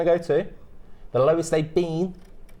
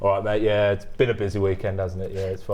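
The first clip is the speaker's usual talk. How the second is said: lowered, laid-back East Midlands chat; chatty East Midlands warehouse bloke; east midlands accent; 5 semitones lower than usual. Retold or imitated. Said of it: "when you go to warehouses, that's how you have to speak".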